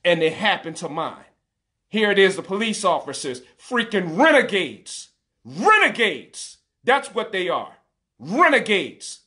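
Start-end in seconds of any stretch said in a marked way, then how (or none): 1.9-9.2 real anger. Real, not acted. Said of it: "and I'm enraged".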